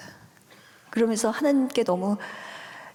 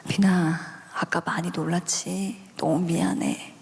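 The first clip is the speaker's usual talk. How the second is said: put-on low, slowed, gentle words to a child; mild sorrow, unhurried and low; retold tearful apology; 3 semitones lower than usual. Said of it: "그러면서 우는데".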